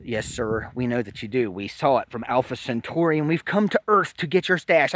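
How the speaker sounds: low, hushed, otherworldly polite alien; alien in-head voice. Acted. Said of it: "And they said".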